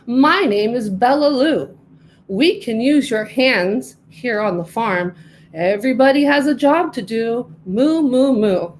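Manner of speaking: a welcoming farm cow introducing herself; a hint of a storybook cow; friendly cow. Bella Lou the cow talks.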